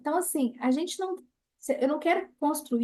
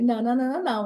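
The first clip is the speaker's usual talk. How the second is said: firm refusal; 4 dB louder, much faster than usual. Retold or imitated. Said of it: "Eu falei".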